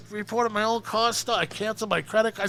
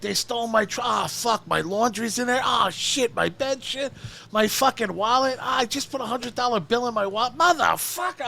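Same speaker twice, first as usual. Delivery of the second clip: higher, panicked rant about the stolen truck; panicking over a missing truck; mock frantic rant; retold freak-out; 5 semitones higher than usual. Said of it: "I'm fucking flipping out".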